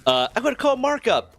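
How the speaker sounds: high, loud mock tantrum; temper tantrum. Teen imitating his manager's tantrum, high loud mock whine. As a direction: whine it out like a grown woman throwing a fit. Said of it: "throwing a temper tantrum like this".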